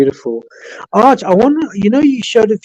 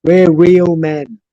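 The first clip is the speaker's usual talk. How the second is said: broad Yorkshire accent at an everyday pitch; matter-of-fact Yorkshire accent, slowing on the last words; Yorkshire accent demo; slower than usual. Shown as a demonstration. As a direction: show them proper northern Yorkshire, hard man. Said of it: "Yorkshire accent's more like this".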